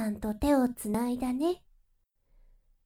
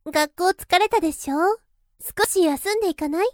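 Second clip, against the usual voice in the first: louder, quicker coaxing tone; coaxing older woman; 2 semitones higher, 5 dB louder, faster than usual. Acted. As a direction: coax them to stay and rest. Coaxes you to rest.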